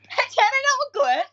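high, loud fake sobbing wail; mock crying. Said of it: "你快模仿一下那天那个韩家乐哭".

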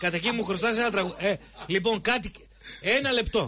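talking through a laugh; real laugh while speaking. Real, not acted. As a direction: let the laugh break into the words. Host laughing mid sentence.

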